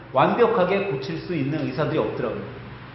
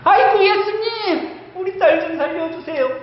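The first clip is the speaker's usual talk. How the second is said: desperate wailing plea; 12 semitones higher than usual. Acted. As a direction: beg Jesus in tears for her daughter. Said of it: "더 심했을 것 같아요".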